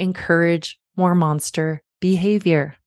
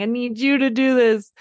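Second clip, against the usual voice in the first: mock whiny kid, pitched higher; lightly voiced clingy child; a hint of a pleading toddler; needy child; 5 semitones higher than usual. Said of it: "clinging or whining and needy".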